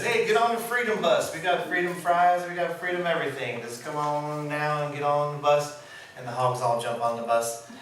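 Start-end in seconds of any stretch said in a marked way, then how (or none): 0.0-5.8 hammed-up cowboy. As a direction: lure them aboard like a slick cowboy. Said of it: "And then the cowboy says".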